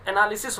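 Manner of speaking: "एनालिसिस" said as a model word; demonstrated pronunciation. Shown as a demonstration. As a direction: model "एनालिसिस" syllable by syllable for students. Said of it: "इसका जो pronunciation है students".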